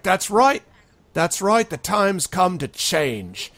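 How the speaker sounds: high, loud cheer-leading; rousing agreement. Acted. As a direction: whip the crowd up further. Sharky rallies the crowd.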